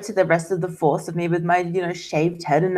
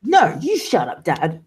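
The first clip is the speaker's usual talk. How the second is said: defiant retort; slower than usual. Acted. Daughter refusing to be silenced by Dad, defiant retort. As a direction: throw it right back at him, slowly. Daughter snaps back at her father.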